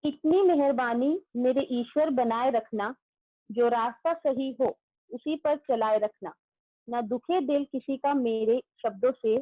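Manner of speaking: slow, even prayer recitation; recited prayer. Real, not acted. Teacher leading young students in a morning prayer, slow and devout. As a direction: lead the class through the prayer with devotion.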